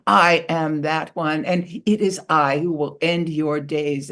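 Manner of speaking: a proud eagle announcing the kill; booming eagle. Acted. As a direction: boast down at her like a mighty eagle. Eagle threatens the beaver.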